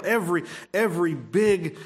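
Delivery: ordinary delivery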